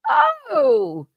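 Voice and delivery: high, gushing fake French; mock French accent. Host voicing French award winners, mock French accent. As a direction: coo it in a badly faked French accent. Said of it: "How do you do a French accent?".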